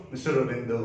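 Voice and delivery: रविंदर ending in an open vowel, final र dropped; English pronunciation. Shown as a demonstration. Teacher showing where the stress sound goes, English-style रविंदर. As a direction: say रविंदर the English way, toward "Ravindo". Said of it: "इसका stress sound जाएगा".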